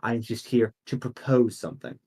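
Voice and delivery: soft, measured council newcomer, lightly voiced; understated formal deference; Leah Lacrosse. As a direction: assure the council quietly, with long pauses. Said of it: "Leah Lacrosse's voice goes".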